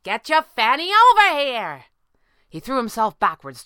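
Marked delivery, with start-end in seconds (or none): 0.0-1.9 high, loud holler; urgent shouted order. A narrator's reading. Squirrel ordering her boss over to her, urgent holler. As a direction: holler for them to come at once. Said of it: "she protested".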